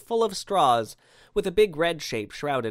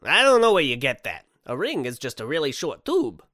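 loud, raised opening settling down; dismissive Santa; 5 dB louder than usual. Acted. Santa defends the ring to doubtful man, mildly affronted. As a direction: burst out in protest, then reason it through.

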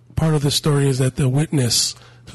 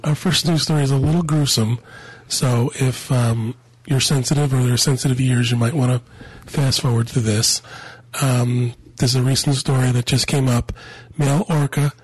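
congested, sinus-blocked voice; stuffy nose. Real, not acted. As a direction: talk through a stuffy nose. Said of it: "I apologize for my voice".

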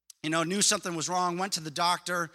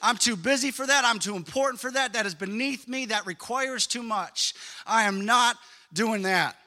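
mock proud refusal; 4 semitones higher, 4 dB louder than usual. Preacher mocking the congregation's excuses, haughty and loud. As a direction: play the self-important person refusing. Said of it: "How many of you have said that".

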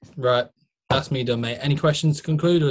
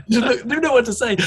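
laughing; 9 semitones higher than usual. Real, not acted. Mate laughing while telling of the pec request. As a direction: giggle it out, still amused.

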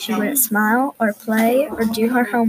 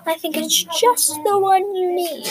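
a hint of a patient, knowing father; lightly voiced wise father; 7 semitones higher than usual. Father calmly defending the elephant to his daughter, lightly voiced. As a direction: gently reason with your daughter, lightly voiced. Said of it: "said her father wisely".

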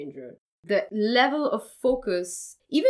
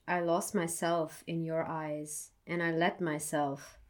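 poem reading. Acted. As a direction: read it gently, like a confession. Reads her poem aloud.

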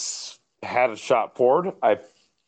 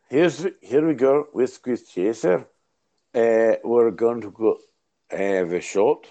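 put-on rough comic go at a Scottish accent; halting, improvised mock Scots; attempted Scottish accent. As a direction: have a stab at Scottish. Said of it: "I wanna do Scottish".

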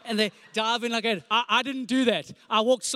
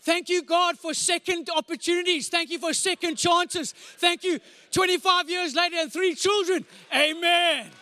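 raised, hammed-up gratitude; mock grateful praise; 5 semitones higher than usual. Preacher jokingly thanks God after forgetting his wife's name, raised and hammed-up. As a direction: thank God like it's a rescue.

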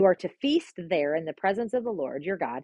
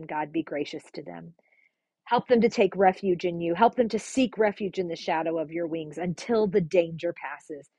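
prayer. Acted. Prays for Ukraine.

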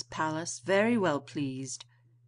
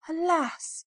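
high, louder cry of sorrow; distressed lament; 10 semitones higher, 5 dB louder than usual. A narrator's reading. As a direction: lament it on a raised pitch. Beauty laments her father's plight.

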